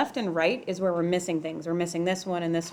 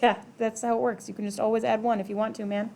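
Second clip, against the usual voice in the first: laughing through it; 3 semitones higher than usual. Retold or imitated. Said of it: "And I'm laughing like".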